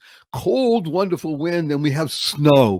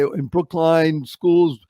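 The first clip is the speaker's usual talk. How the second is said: radio announcer; 3 semitones higher, slower than usual. Retold or imitated. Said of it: "they'd say this one".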